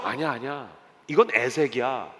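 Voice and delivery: low, soft, backing-down voice; timid Isaac. Acted. Timid Isaac refusing his servants' call to fight, low and soft. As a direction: shrink back quietly, low and slowing down. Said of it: "굉장히 소심한 사람".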